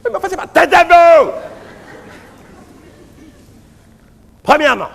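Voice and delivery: frantic priest yelling for silence; calming the crowd. Acted. Priest quieting a rowdy crowd.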